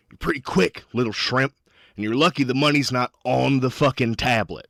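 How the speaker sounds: lightly voiced irritated old miner; a touch of menace under the words; gruff old miner. Miner grabs the puncher's wrist, lightly menacing. Angry miner threatens the player character.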